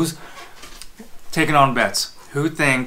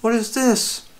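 angry customer; 10 semitones higher than usual. Acted. Skit of a complaining customer.

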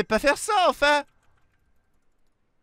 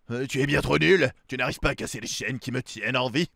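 booming echoing villain monologue; 11 semitones lower than usual. Acted. Villain taunts the hero.

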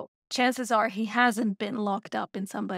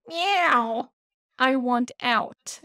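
cat's demand; much slower than usual. Retold or imitated. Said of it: "and says".

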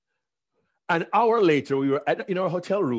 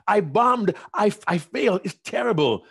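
louder, higher lament; mock despair over a failure; a hammed-up wail of defeat; dejected; 6 semitones higher, 5 dB louder than usual. Complaining to fellow Toastmasters.

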